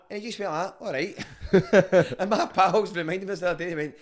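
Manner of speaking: loud, high, laughing throughout. Real, not acted. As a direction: crack up while telling it.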